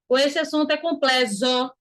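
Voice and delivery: COMPLEXO mispronounced as "com-ple-zo"; wrong Z pronunciation. Shown as a demonstration. Teacher rejecting another wrong reading, deliberately mispronounced. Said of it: "Ninguém aqui fala complexo".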